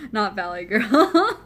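laughs through the words, slowly; laughing it off; amused correction while laughing. Real, not acted. Laughing at the impression.

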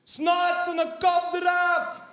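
put-on high, loud, slow Antwerp accent yell; Antwerp accent shout. Fighter beside him yelling in an Antwerp accent. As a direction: bellow it in a thick Antwerp accent. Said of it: "in een Antwerps accent roept".

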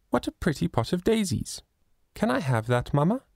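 put-on high, eager childlike voice; a sweet little girl coaxing her mother; little girl Lily. A narrator's reading. Little Lily pleading with mamma to buy the flowers, high and childlike.

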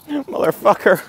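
high, loud curse; loud, high burst of frustration; frustrated yell. Real, not acted. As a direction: shout it out in sudden frustration. Surprised cry of frustration.

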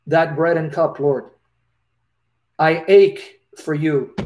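emotional retold prayer, near tears; aching prayer. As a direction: pray as if your heart aches. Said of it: "I'm about to cry".

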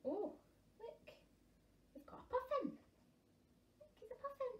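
high, delighted reveal of the puffin; excited. Real, not acted. Reading to children, excitedly pointing out a puffin.

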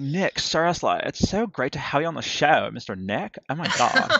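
hint of an American accent, gushing; mock American accent. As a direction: gush like an American host, half-hearted accent. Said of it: "really shit at a certain accent".

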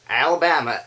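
film-influenced American accent. Shown as a demonstration. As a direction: slip into American for the place name. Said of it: "say Alabama in an American accent".

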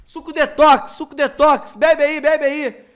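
loud hawking vendor. Retold or imitated. Vendor hawking juice, retold.

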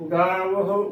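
ਗਾਵੋ as "gaa-va-hu", with audible h; correct three-syllable reading. Shown as a demonstration. Teacher giving the correct reading, ਗਾਵੋ said "gaa-va-hu". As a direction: sound a separate final "hu" in ਗਾਵੋ. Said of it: "ਉਚਾਰਨ ਕਰਨਾ ਹੈ".

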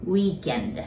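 "weekend" with the tongue up on the n in end; n sound demo. Shown as a demonstration. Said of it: "endの時舌を上つけ".

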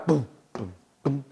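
deep quiet boom imitation; soft low boom drum sounds; low booming bass. Shown as a demonstration.

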